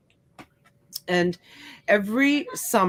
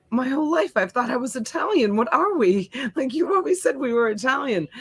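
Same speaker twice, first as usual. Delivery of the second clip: retold daughter's disbelief, pitched up; bewildered protest; 5 semitones higher than usual. Daughter challenges her mother about being Italian, bewildered protest. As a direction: imitate a higher, mildly indignant questioning.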